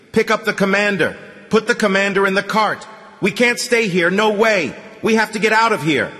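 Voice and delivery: loud, high shout over the noise; yelling. A narrator's reading. Artyom yelling at Zhenya over the noise, loud and high. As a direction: bellow orders to get them moving. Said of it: "and yelled at him".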